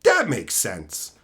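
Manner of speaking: high, slow dripping sarcasm; sarcastic agreement. Retold or imitated. Mocking the manager's locked-door rule, sarcastic. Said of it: "And I'm like".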